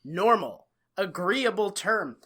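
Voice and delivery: measured mock acceptance, word by word; blandly agreeing. Co-host imitating everyone going along with it, mock-agreeable. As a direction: imitate people calmly accepting nonsense. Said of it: "Everyone else is like".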